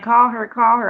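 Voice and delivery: imitating worried Anthony. Imitating Anthony urging her to call his friend, high urgent plea. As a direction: play him pushing her to call. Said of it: "he was all like".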